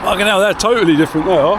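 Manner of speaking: high, quick burst of real surprise; genuinely startled outburst; shocked exclaim. Real, not acted. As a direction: blurt it out, taken aback. Tasting fruit, shocked by difference.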